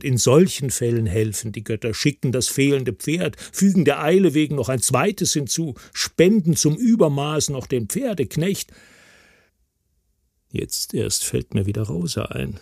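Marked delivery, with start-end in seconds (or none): 0.0-8.7 bitter sarcasm in a silent thought; mocking. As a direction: scoff at the gods, dry and sour. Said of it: "denke ich lästernd".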